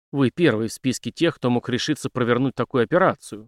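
ordinary delivery, nothing marked

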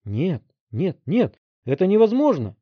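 put-on high, loud frightened boy's cry; panicked shout. A narrator's reading. Teen panicking when told he'll lose power. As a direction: scream as if a knife is at his throat. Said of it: "закричал Вилли".

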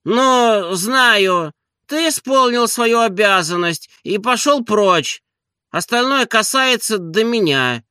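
lordly, high-pitched dismissal; peevish drowsy master. A narrator's reading. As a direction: whine the servant away in a high pitch. Narrator voices sleepy master Oblomov.

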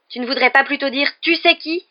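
high, loud, rising outrage; angry exclamation. A narrator's reading. Ron objecting to Harry naming Voldemort, angry exclamation. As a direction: snap it out, climbing to the last word. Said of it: "s'exclama Ron avec colère".

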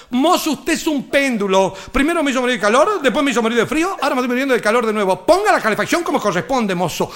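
scolding the waiter in a rush; old lady scolding the waiter; fussy old lady. Retold or imitated. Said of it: "de nuevo la vieja".

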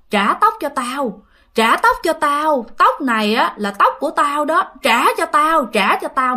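imitating a fierce ghost woman; menacing ghost. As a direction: chant the demand slowly, a touch menacing. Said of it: "người đó cái gương mặt rất là dữ".

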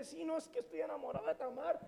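confesión alta y suave; voz lánguida de enamorado; Amón enamorado. Retold or imitated. Amón confiesa su amor. (Amón confiesa al primo, alto y suave)

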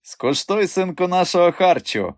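high, animated urging to eat; coaxing invitation. A narrator's reading. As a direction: coax a guest to have a taste. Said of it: "припрошував він".

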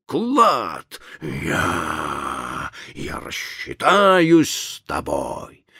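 slow, raging madman; furious ranting. Acted. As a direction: rage at him, drawn out. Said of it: "яростный вопль бешенства".

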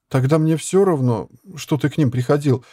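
порывисто; impulsive. A narrator's reading. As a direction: blurt it out in a rush of feeling. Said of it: "порывисто сказала девушка".

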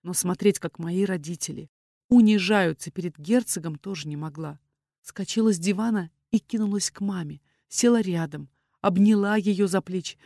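ordinary delivery, nothing marked

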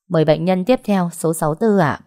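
calling out. Acted. Clinic staff summon the next patient, calling out. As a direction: call the next patient clearly and loudly.

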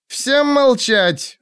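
high, slow barked order; sharp command. Acted. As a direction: snap the order out. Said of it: "бросила Хеллиан".

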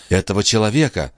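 fast, indignant cry; indignant exclamation. A narrator's reading. Sister names the man in anger, quick indignant cry. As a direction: spit it out in outrage. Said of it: "воскликнула Андреа ещё более гневно и возмущённо".

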